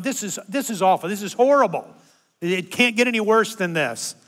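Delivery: complaining. Retold or imitated. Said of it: "And I'm going".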